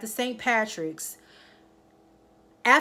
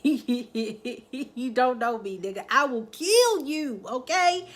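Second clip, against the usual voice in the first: slow, drawn-out threat, rising higher; menacing repeat; 3 semitones higher, slower than usual. Retold or imitated. Ghost repeating his threat to Tate, slow and menacing. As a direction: stretch each word out like a warning.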